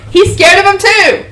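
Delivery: high, loud taunt; gleeful jeering. Acted. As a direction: crow over his fear. Character jeers at frightened companion.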